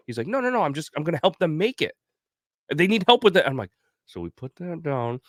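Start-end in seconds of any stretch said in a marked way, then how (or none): 0.3-3.4 mock drunk buddy.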